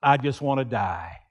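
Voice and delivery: hopeless prophet rising to a desperate cry; despairing plea. Acted. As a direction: sink into despair, then beg God for death. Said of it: "he says".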